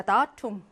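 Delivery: 다툼 stressed on its opening 다; first-syllable stress. Shown as a demonstration. Teacher repeating the answer word, stress on 다 in 다툼. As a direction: hit 다 in 다툼, then drop on 툼. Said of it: "얘 일 강세입니다".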